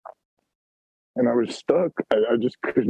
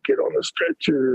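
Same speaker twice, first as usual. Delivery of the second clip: retold yell. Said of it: "he starts yelling at me".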